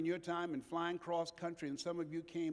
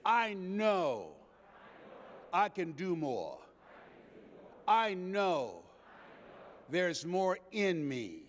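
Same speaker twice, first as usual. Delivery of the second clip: call to repeat. Shown as a demonstration. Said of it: "let us say together".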